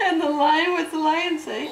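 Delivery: laughing. Real, not acted. Mother laughing mid-question.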